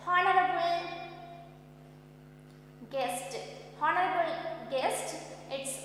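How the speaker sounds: mild formal introduction. Acted. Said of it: "He introduced like that".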